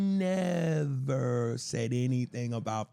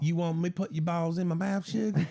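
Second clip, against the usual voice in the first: put-on Southern accent; 2 semitones higher than usual. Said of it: "that Southern accent".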